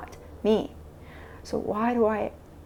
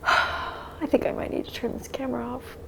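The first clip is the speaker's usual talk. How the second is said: weary; 3 semitones higher than usual. Real, not acted. Vlogger close to breaking.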